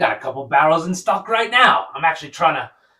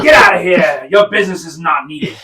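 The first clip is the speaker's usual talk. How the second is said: loud, commanding get-out; shouted dismissal; 3 semitones higher, 6 dB louder than usual. Acted. Shopkeeper ordering the rude elf out, loud shout. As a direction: bark him out of the shop.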